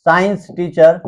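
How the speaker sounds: measured, for note-taking; slow dictation. Shown as a demonstration. Teacher dictating a mnemonic for students to note, slow dictation. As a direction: dictate it slowly. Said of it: "मैं धीरे धीरे करके बोल रहा हूँ".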